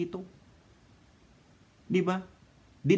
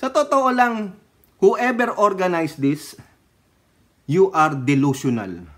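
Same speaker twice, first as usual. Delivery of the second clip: louder, slow, exasperated call-out at the organizers; exasperated scolding; 5 dB louder than usual. Real, not acted. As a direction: tell them off firmly, drawing it out. (galit na pagsaway, malakas at mabagal)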